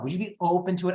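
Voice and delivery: easy, non-pushy question with "open" stressed; emphasis on open. Shown as a demonstration. Agent just asking, not demanding, "open" stressed. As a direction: lean gently on "open". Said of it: "Again, the emphasis, the tone".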